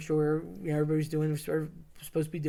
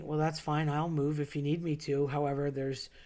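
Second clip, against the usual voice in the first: mild, softer, even-keeled retold reply; understated calm, eased down a little in volume; 4 dB quieter than usual. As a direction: imitate a friend calmly explaining himself. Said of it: "he says very calmly".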